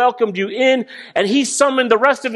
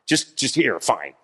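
mock exasperated giving in, dropping lower; grudging fine; 4 semitones lower, much slower than usual. God caving in to a pestering child, fading lower. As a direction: sigh it out, worn down and fading. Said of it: "God will be like".

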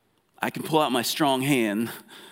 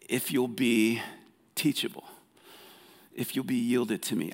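gentle voice of God. Acted. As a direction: lean in gently, like a caring father. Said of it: "and he's saying".

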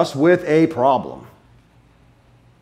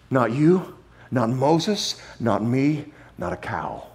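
fading list; 2 semitones lower, 6 dB quieter, slower than usual. Real, not acted. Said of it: "fading list".

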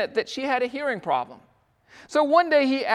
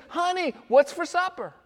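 husband calling out; 8 semitones higher than usual. Retold or imitated. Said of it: "He says".

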